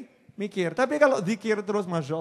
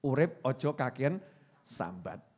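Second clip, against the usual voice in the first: soft fading slogan; 6 semitones lower, 6 dB quieter than usual. Shown as a demonstration.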